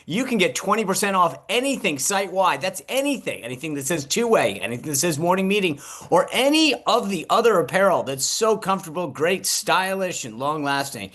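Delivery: mock game-show presenter. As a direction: sell it like a cheesy TV shopping host, punching the key words. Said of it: "Thank you, Vanna".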